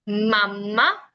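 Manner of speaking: mamá with a longer m; stronger m. Shown as a demonstration. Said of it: "marca un poquito más la M".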